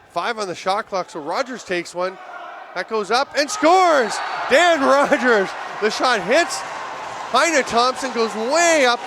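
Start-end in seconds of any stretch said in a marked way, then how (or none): 2.7-9.0 loud, high, drawn-out play-by-play cry; real commentator excitement, big and stretched; excited goal call. Real, not acted. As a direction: erupt as the shot goes in. Calling a surprise goal live.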